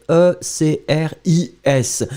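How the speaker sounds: E C R I S letter by letter; spelled out. Shown as a demonstration. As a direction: spell out E C R I S slowly. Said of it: "you should write it". (épeler E C R I S)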